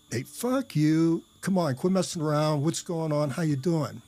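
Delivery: playfully indignant, voice lifted; joking disbelief. Retold or imitated. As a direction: brush it off as a friend's prank. Retold reply to supposed prank.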